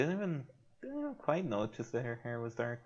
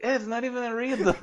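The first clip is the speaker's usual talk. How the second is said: higher and faster, half laughing; 10 semitones higher, 5 dB louder, faster than usual. Real, not acted. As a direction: say it through a giggle. Laughing along at the joke.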